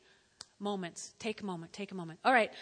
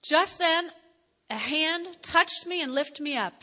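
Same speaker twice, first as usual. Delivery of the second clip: reading it again, louder and raised; louder emphatic reading; 5 semitones higher, 5 dB louder, slower than usual. Shown as a demonstration. Preacher rereads the verse to the congregation, louder and raised. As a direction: proclaim the verse with force. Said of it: "let's read that again".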